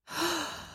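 short high gasp of a cub; surprised gasp. A narrator's reading. Little cub discovering the sleeping girl, soft high gasp.

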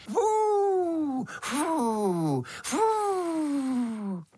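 high puffing blows; blowing sounds. A narrator's reading. Little beetle blows at the hearth fire, high puffs. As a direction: blow hard at the fire, puff by puff. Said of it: "Ale Brouček přece foukal".

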